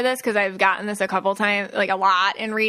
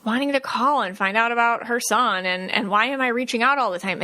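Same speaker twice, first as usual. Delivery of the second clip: exasperated daughter; 2 semitones higher than usual. Retold or imitated. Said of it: "But she was like".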